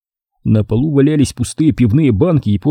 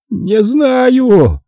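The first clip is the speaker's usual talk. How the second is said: shrieking; 13 semitones higher than usual. A narrator's reading. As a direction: shriek «Не знаю!» in terror. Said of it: "проверещал смотритель". («Не знаю!» визгливо, очень высоко и громко)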